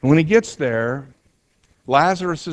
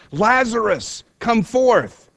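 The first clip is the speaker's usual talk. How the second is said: a higher, ringing call to "Lazarus"; 7 semitones higher, slower than usual. A narrator's reading. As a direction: summon him out of the tomb, pitch up. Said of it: "called out in a loud voice".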